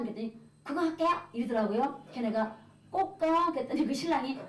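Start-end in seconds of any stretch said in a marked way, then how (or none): 0.6-1.1 imitated grudging reply, higher pitched; high, terse mock assent; curt. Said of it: "쌀쌀맞게". 2.9-3.5 high, emphatic urging; louder, higher retold insistence; insistent. Retold pressing the wife to attend.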